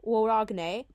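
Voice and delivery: Waragne opening on a W sound; V pronounced as W. Shown as a demonstration. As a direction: say Waragne with W for the Latin V. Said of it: "you pronounce it W".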